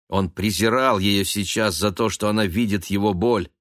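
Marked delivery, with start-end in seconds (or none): none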